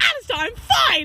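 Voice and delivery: high irritated snap; retold snap at a pushy coworker; snapping at Alistair. Telling off Alistair in front of customers, irritated. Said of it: "I was like".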